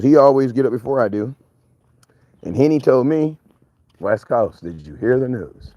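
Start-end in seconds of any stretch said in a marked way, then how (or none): 4.0-5.7 lower, mock cousin voice asking about news; imitating his cousin. Cousin calling early with news, lower mock voice. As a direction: drop your voice to play the cousin on the phone. Cousin quoted in a retold call.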